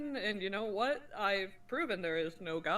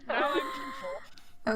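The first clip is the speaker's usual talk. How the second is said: high, slow villain voice; mock evil; slower than usual. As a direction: ham up being evil. Jokingly claims to be evil.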